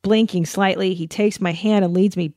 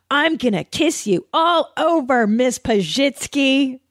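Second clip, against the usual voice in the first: hammed-up lover, pitched high; mock seductive husband; 6 semitones higher, slower than usual. Imagining her husband seducing her, hammed-up seductive voice. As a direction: overplay the romantic vow, stretching the surname. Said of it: "If my husband was like".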